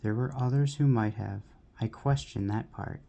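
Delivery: measured, lilting verse reading; poem reading. Acted. Reader sharing a poem to a friend with viewers, measured recitation. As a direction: read the verse with firm emphasis on line openings.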